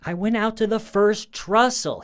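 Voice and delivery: imitating a husband's high, loud, strained-up protest; voice going up. Husband in trouble with his wife, voice shooting up. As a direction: push the pitch right up, mimicking his defensive line. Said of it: "the way his voice goes up".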